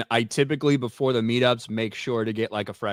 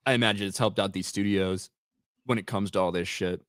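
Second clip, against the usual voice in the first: talking through hiccups; hiccuping; 3 semitones lower, 4 dB quieter than usual. Real, not acted. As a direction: hiccups breaking into the words. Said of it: "Excuse me, I'm hiccuping".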